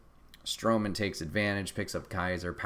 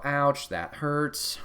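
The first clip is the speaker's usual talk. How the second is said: mock wince; 4 semitones higher, much slower than usual. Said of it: "We all go".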